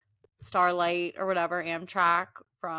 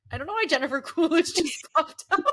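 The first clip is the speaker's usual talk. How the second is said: a hint of a famous actress voice; Jennifer Coolidge; 9 semitones higher, 5 dB louder than usual. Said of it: "That's exactly what I was thinking".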